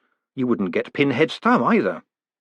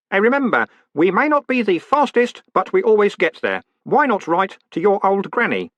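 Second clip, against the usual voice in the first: high, loud anxious pitch; nervous sales pitch; 10 semitones higher, 4 dB louder than usual. A narrator's reading. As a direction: recite the slogan in fright.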